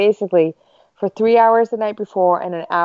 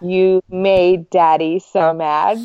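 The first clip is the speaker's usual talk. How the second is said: slow, drawn-out mock dad apology; lightly voiced guilt-tripping father; abuser's apology; much slower than usual. Dad apologizing to kids at drop-off, slow blaming mock apology. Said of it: "like, an abuser's apology".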